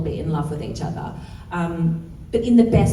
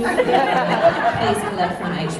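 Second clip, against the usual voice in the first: mock PA announcement. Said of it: "So is this a public service announcement?".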